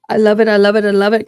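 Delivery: loud happy chant; loud gushing. Real, not acted. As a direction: gush over the coffee. Repeated enthusiastic exclamation.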